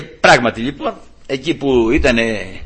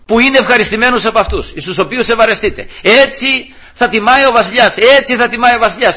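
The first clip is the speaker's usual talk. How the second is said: mock public announcement, pitched up; herald's cry; 6 semitones higher than usual. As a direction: call it out like a town crier, without full shouting. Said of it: "και να φωνάζει μπροστά και να λέει".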